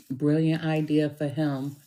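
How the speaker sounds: dry sarcasm with mock approval; sarcastic mock compliment. Real, not acted. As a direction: say it sarcastically, as fake praise. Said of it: "and I'm being sarcastic".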